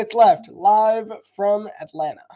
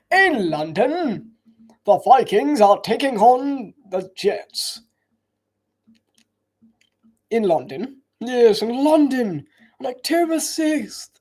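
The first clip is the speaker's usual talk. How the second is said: slow, higher mock British voice; 5 semitones higher, slower than usual. Streamer teasing the London game in a slow mock British voice. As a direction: draw out London like a posh Brit.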